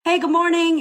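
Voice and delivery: bright, high, eager hello to the audience; chirpy greeting. Retold or imitated. Host greeting her online audience, high and cheery. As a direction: greet your followers like you're thrilled to see them. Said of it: "And you're like".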